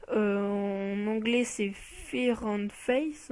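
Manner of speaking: slow, careful English words in a French accent; mediocre English accent. Real, not acted. French gamer reads card names to viewers in a mediocre English accent. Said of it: "désolé pour mon accent anglais médiocre".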